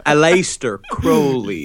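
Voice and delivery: slow, deliberate "Aleister Crowley", with CROH-lee; "Crowley" said CROH-lee, spelled out slowly for the listener; Crowley with long o. Shown as a demonstration. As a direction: draw out "Aleister Crowley", the Crow rhyming with go. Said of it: "is how you pronounce it".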